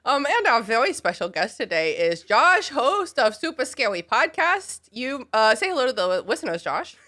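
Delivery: put-on lightly childish baby talk; little kid voice. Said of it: "so I'm doing this little kid voice".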